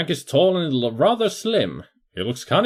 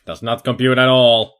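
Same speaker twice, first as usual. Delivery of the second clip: louder flat robot declaration; loud mock robot; 6 dB louder than usual. Player jokes his brain can't process the girl, loud mock robot. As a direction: blurt it out like an overloaded machine.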